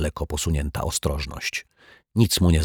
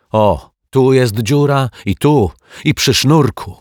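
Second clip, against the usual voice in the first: put-on higher, louder upset child voice; a kid close to tears, pleading his case; upset boy; 4 semitones higher, 4 dB louder than usual. Boy tells the detective about his kite, higher upset child voice.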